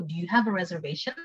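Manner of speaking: casual quick model phrase; quick take. Shown as a demonstration. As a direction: say it at everyday speed. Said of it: "cepet sama pelan".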